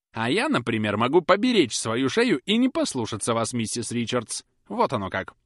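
loud, high, forceful; heated lecture. A narrator's reading. Susan lecturing Polly, loud and heated. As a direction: drive every point home. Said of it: "быстро замахав головой".

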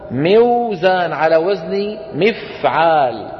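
"موزان" slowly, sounding the waw after kasra; original unaltered form. Shown as a demonstration. Teacher gives students the word's origin, "موزان" slow as miw-zaan. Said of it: "أصل كلمة ميزان".

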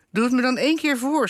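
high-pitched, lightly acted begging; pleading. A narrator's reading. Husband begs his wife to demonstrate, pleading. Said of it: "smeekte hij".

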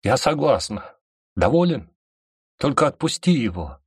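fiercely giving in, high and loud; tearful shout. Acted. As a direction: shout it through tears. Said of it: "прокричала, глотая солёные слёзы".

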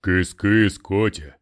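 cooing. A narrator's reading. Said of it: "заворковал русский".

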